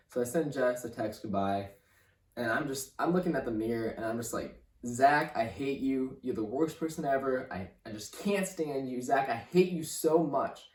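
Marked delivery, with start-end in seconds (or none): 4.8-10.7 a touch louder, bitter words at his own reflection; retold self-hatred. Young man retelling cursing himself in the mirror, mild mock venom. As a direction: spit it at the mirror like at a stranger. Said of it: "It was like I was talking to a different person".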